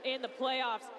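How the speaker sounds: quick, excited sports call; live play-by-play. Real, not acted. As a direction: rattle off the action fast.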